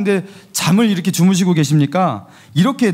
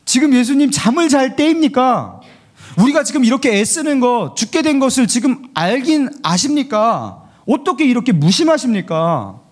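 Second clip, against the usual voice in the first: higher, hurt and reproachful; reproachful complaint; 5 semitones higher than usual. Retold or imitated. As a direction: voice the disciples' resentment. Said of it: "감정이 실려 있죠".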